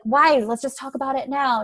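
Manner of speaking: mildly insistent partner pushing back; impatient nudge to argue now; pushy partner. Retold or imitated. Partner pushing to argue now, lightly acted impatience. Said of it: "if they push you".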